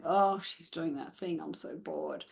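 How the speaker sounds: soft, fading mock-bored dog voice. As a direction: voice the dog rolling its eyes, unimpressed. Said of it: "rolling their eyes".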